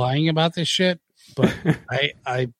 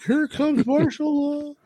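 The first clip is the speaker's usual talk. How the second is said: mock announcer hype; 11 semitones higher than usual. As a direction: draw out the intro like a hyped commentator. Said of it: "you're like".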